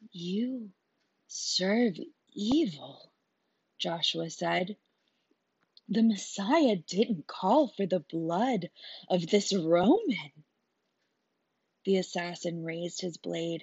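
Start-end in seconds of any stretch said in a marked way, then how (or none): 0.1-10.4 solemn rebuke. Acted. Joshua rebukes the assassin.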